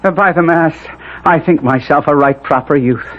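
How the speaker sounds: high, pleased self-admiration; vain delight. Acted. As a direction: admire yourself aloud. Vain delight at his reflection.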